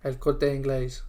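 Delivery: El Corte Inglés in a Spanish accent. Shown as a demonstration. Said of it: "say that in a Spanish accent for me".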